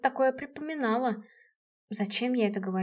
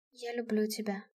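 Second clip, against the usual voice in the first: soft confession of love, much softer; said quietly; 8 dB quieter than usual. A narrator's reading. Heroine quietly confesses love to the general. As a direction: breathe the words out gently. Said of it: "произнесла тихо".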